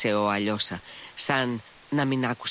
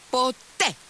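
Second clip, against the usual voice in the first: put-on high-pitched girlish cry of refusal; sharp exclamation; 3 dB louder than usual. A narrator's reading. Lise refusing to open her door, exclaiming. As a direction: cry it out, defiant. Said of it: "ξεφώνησε η Λις".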